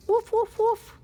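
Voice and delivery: very high, loud woofs; dog barking. Acted. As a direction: yap them out brightly. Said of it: "he can hear him barking".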